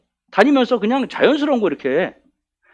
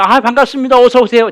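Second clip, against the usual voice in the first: louder, higher acted welcome; welcoming greeting; 3 semitones higher, 5 dB louder than usual. Old-time congregation welcoming a newcomer, hearty. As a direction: greet heartily, as if receiving a visitor. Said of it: "옛날에는".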